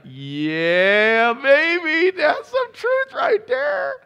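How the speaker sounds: high, loud, slow crying-out of joy; ecstatic yell. Retold or imitated. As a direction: shout it like the best news ever. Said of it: "And I'm like".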